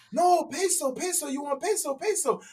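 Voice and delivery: a hint of a patient seller repeating peso; mild vendor impression. Vendor voiced in story.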